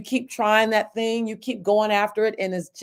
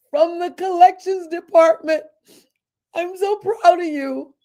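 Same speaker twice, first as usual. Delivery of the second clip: a touch of a higher, louder voice for the tearful lady; proud old boss choked up, higher; collections lady; 7 semitones higher, 4 dB louder than usual. Retold or imitated. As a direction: voice the lady with rising emotion. Collections lady's tearful words voiced.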